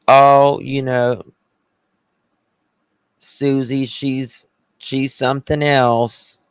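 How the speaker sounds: acted Southern tattle, pausing knowingly; Southern gossip. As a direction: gossip with pious false sympathy. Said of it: "we gossip. We gossip. And we're like".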